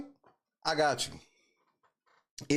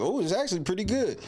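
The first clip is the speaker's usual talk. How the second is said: mocking; faster than usual. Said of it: "Now these motherfuckers".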